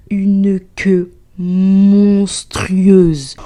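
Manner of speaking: slow hushed whisper building suspense; drawn-out whisper on monstrueuse; dramatic whisper. Acted. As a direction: breathe it out slowly like a horror reveal. Dramatic reveal of the queue.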